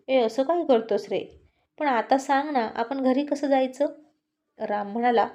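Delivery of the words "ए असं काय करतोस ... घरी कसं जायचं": light laugh. Acted. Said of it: "Siya थोडी हसून म्हणाली".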